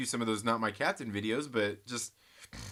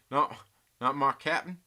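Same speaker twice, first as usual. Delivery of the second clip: put-on Southern accent; 4 dB louder than usual. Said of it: "in Southern accent".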